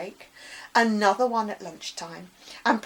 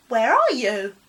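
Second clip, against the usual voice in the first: loud upset call out; tearful call; 2 semitones higher, 10 dB louder than usual. Acted. Crying boy calling to a hidden voice, loud. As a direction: call out to the unseen voice.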